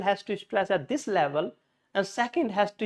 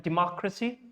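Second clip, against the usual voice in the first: Democracy as de-MOC-racy; Democracy with its weight on the second syllable; stress on second syllable. Shown as a demonstration. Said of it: "is stress on the second".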